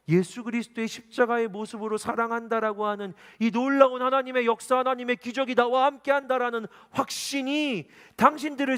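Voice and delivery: high, loud preaching at full force; impassioned preaching. Acted. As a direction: preach with swelling fervor.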